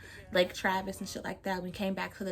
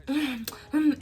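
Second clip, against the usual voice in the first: mock moaning; 6 semitones higher, 4 dB louder than usual. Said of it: "making the fucking stupidest noises of my life".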